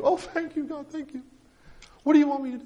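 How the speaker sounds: high, breathless thanks; desperate relief. A narrator's reading. Man on the branch thanking God in a high desperate voice. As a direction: gush thanks up high, clinging on.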